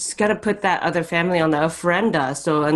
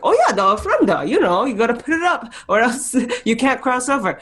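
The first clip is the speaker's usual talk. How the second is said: mock know-it-all; 6 semitones higher than usual. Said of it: "I'm like".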